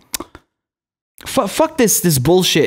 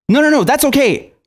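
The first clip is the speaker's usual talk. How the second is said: mock indifference; 6 semitones higher than usual. Mocking voters who shrug off wars.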